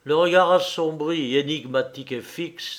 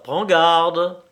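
loud, raised threat; growled warning; 4 semitones higher, 7 dB louder than usual. A narrator's reading. Man releasing her hand, growled threat. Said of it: "desserra son étreinte et gronda".

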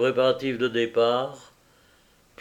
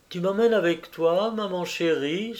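put-on eager child; 6 semitones higher than usual. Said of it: "s'écria aussitôt le bambin".

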